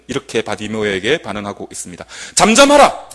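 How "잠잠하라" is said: sharp loud, higher mock rebuke; the crowd shouting the blind beggar down; crowd's rebuke. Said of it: "이렇게 하고 있습니다".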